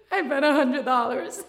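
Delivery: tearful laughing fib; half-laughing sob; crying lie. Retold or imitated. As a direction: choke out the lie through tears. Lying while crying.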